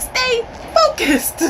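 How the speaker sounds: high, slow, drawn-out "stay focused"; breathy command. Retold or imitated. Woman telling him to hush during sex, high and slow. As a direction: stretch it out, playfully commanding. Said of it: "She was like".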